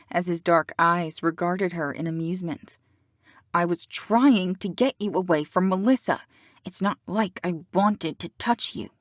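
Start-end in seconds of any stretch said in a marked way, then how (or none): 3.5-8.9 through gritted teeth, tense. Acted. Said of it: "through gritted teeth".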